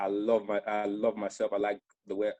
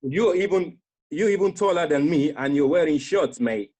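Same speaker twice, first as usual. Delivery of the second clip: high, loud, excited teasing; excited friend; 8 semitones higher, 7 dB louder than usual. Retold or imitated. Friend thrilled by the shorts photo, high loud excited teasing. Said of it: "He's like".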